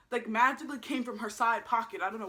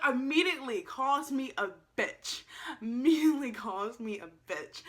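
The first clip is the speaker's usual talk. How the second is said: indignant emphasis. Real, not acted. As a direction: stretch it out in disbelief. Indignant retelling, repeated for emphasis.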